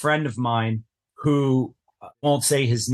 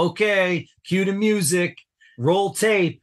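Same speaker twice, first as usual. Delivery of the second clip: higher call to start taping; crew call; 6 semitones higher than usual. Retold or imitated. Director starting the taping, raised call. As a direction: call it out across the set.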